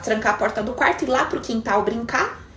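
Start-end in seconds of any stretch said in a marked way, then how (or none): none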